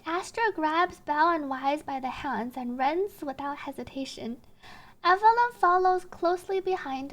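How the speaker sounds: slow, measured storytelling read; story narration. A narrator's reading. Narrator tells of fleeing the enraged director, measured narration.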